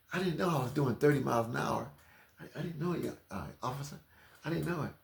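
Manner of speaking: high sweet greeting, then stammering; mock flustered driver. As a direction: flirt and fumble with the cop. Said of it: "put it on".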